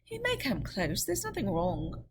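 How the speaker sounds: calm the guard; Lorry reassuring. Acted.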